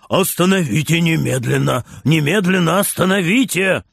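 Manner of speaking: grandpa shouting. Acted. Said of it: "тоже кричит".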